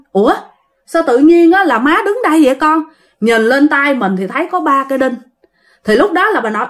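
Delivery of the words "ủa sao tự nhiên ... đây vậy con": put-on higher-pitched, puzzled old mother just come round; bewildered. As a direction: ask it dazed and baffled, pitched up. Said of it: "Ngơ ngác dòm xung quanh".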